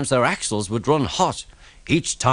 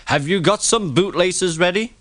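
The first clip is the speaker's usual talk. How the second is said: high, mocking little taunt; teasing; 7 semitones higher than usual. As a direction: poke fun at him. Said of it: "Thomas ran off laughing".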